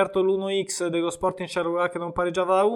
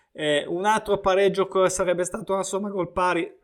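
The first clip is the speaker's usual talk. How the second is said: cracked, breaking voice. Real, not acted. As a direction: voice cracking mid-sentence. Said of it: "partita la voce a, alla Inzaghi".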